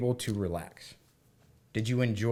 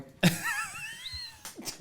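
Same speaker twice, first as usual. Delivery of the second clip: squeaky high laugh of disbelief; high disbelieving laugh; 6 dB quieter than usual. Retold or imitated. Man recalling being handed Twilight, high laugh. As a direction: laugh up high, can't believe it.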